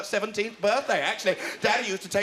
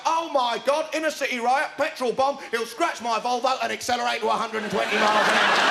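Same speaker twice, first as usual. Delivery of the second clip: mock panicked shout; 3 semitones higher than usual. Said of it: "I shout".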